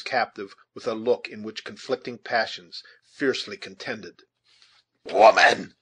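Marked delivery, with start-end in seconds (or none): 5.0-5.7 high, loud call with falling tune; commanding shout. A narrator's reading. Huron chief to his captive, a commanding shout.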